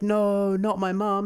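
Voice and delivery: high, loud pained cry of no; anguished cry. Acted. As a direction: cry out in grief for his mom. Son cries out over his mother.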